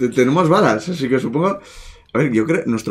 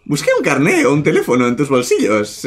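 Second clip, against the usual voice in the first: psycho voice; 4 semitones higher, 3 dB louder than usual. Acted. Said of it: "Porque es una psicópata".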